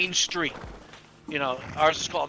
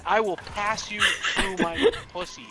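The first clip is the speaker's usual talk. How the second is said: laughing retelling; 4 semitones higher, slower than usual. Retold or imitated. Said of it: "She said".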